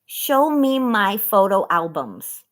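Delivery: slow, clearly spaced words for a voice assistant; voice command to phone. Real, not acted. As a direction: speak each word slowly so the phone understands. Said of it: "I'm gonna ask my phone".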